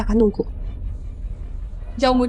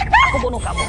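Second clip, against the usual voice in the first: crazed scream. Acted. Mother-in-law shrieks a death threat at the wife, crazed scream.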